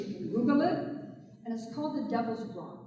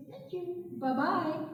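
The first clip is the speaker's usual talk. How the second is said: higher, breezy farewell; cheeky turtle; 5 semitones higher, 3 dB quieter, slower than usual. A narrator's reading. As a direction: wave off the fools sweetly. Turtle cheerfully waving goodbye.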